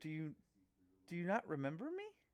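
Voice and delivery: slightly distorted, warped, off-sounding voice. Storyteller voicing a figure asking the players if they remember it, slightly distorted voice. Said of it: "the voice sounds a little distorted".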